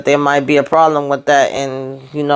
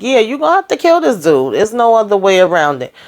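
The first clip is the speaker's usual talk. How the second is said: higher, insistent push on kill; emphatic urging; 4 semitones higher than usual. Real, not acted. Fan urging the character to kill the cop, emphatic and insistent. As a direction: hit kill hard, like it is obvious.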